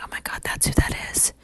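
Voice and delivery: whispered, astonished aside; hushed realization. Retold or imitated. Eavesdropper in stall recognizing young woman, hushed. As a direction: whisper it to yourself in hiding. Hidden listener realises who it is.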